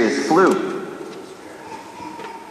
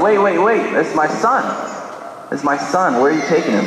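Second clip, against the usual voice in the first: higher-pitched protest, urgent; mildly panicked dad, voice raised in pitch; alarmed father; 5 semitones higher than usual. Acted. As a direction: plead as they take your son away. Father protests son being taken.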